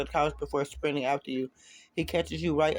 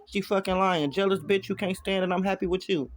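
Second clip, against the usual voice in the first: angry frustration; 4 semitones higher than usual. Acted. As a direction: force it out through anger. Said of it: "contorts with anger and frustration".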